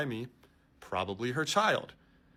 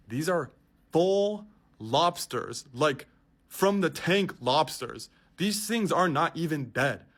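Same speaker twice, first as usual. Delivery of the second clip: louder, higher, slowed disbelief; incredulous; 4 semitones higher, 5 dB louder, slower than usual. Real, not acted. Vlogger telling viewers about live lobsters, louder disbelief. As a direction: stress how absurd it is.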